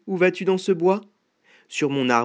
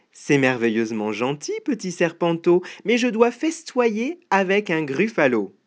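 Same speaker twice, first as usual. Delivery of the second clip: mouse voice climbing higher; polite little mouse; 4 semitones higher than usual. Acted. Mouse turning down the snake's invitation, politely evasive.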